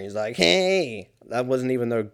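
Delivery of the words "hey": high, loud mock Fran Drescher hey; Fran Drescher impression. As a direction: belt it out as a bad Fran Drescher. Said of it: "what if God was like Fran Drescher".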